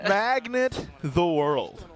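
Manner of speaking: slow, drawn-out catchphrase; quoting catchphrase. Retold or imitated. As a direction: stretch the words like a slogan. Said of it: "that catchphrase that he has".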